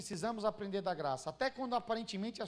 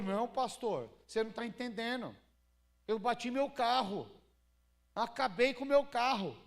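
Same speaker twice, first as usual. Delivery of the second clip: imitating an exasperated complainer, slowing and getting louder; mock protest, building in force; indignant protest; 3 dB louder than usual. Acted church member protesting to pastor.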